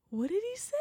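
hushed disbelief; quiet shocked murmur; stunned whisper. Retold or imitated. Shocked inner thought.

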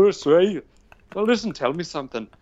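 high-pitched imitation of grandpa; grandfather's voice. Grandfather coaxing his grandson over the phone, imitated high voice. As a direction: put on an old grandfather on the phone. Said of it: "I'd call him and he'd say".

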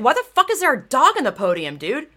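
imagined reaction to the podium photo, indignant; angry outburst. Retold or imitated. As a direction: fire it at whoever posted the photo. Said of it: "I'd be like".

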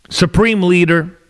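dry mock-reverent title; facetious. Real, not acted. Podcaster mocking Canada's prime minister, facetious. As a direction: say the title with a wink. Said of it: "I say supreme leader very facetiously".

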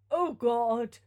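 loud, imploring cry; anguished appeal. Acted. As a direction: appeal to heaven. Father pleads for son's life.

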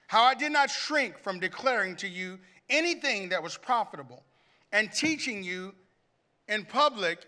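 measured, weighty reading with long pauses; lightly dramatized Bible reading; emotional scripture reading. Acted. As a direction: read Paul's farewell as if you feel it. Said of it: "I want you to hear his emotion".

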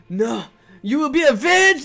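vengeful vow. Pretend. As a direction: swear revenge over the fallen rat. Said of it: "and I go".

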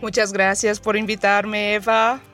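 Portuguese-accented Spanish; Spanish with a Brazilian accent. Real, not acted. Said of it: "mi español no es súper".

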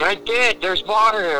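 high, lost voice; a high, bewildered friend; mock clueless friend. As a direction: pitch it up like a lost kid. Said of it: "He's like".

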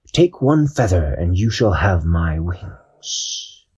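solemn owl. Acted. Owl granting Dashi his wings, slow and solemn. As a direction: bestow the gift gravely.

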